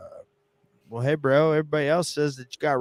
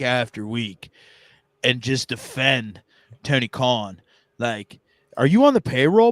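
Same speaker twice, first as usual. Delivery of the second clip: mock accusatory questioning; 4 semitones higher than usual. Mock interrogating co-host.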